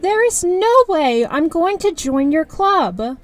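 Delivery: slow, emphatic refusal; firm refusal. Acted. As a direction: spell out the no word by word. Refusing friend's club.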